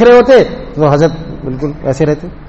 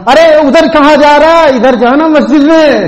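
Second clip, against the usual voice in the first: higher, louder call after a man; 9 semitones higher, 4 dB louder than usual. Retold or imitated. The elder calls the simple man back toward the mosque, loudly. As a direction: call out to him across the way. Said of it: "آواز دی".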